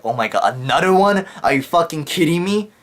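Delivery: a frightened cry of disbelief as the quake hits again; terrified disbelief. Retold or imitated. Student hearing the second quake coming, panicked high cry. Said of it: "I remember being terrified".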